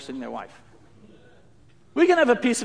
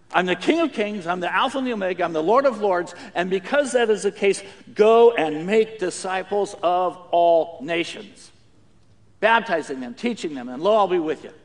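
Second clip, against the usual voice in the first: solemn royal command; 4 dB louder than usual. Retold or imitated. Jesus voiced giving commission.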